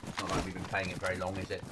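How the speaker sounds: sarcastic. Real, not acted. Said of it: "Which is my sarcasm".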